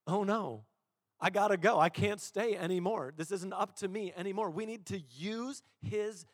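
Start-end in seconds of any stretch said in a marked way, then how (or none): 0.1-4.5 lightly voiced panicking devil; a hint of a devil backing off; devil in retreat. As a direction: play the devil conceding, half in earnest. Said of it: "the devil's like".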